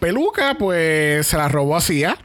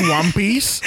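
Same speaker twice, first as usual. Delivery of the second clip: laughing punchline; 5 semitones higher than usual. Real, not acted.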